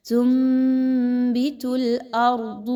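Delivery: تنبت with the ن turned into a nasal م, very slow; teacher models iqlab in تنبت. Shown as a demonstration. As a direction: say تنبت as "tumbit", humming the م. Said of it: "نون کی آواز کو میم کی آواز میں بدل".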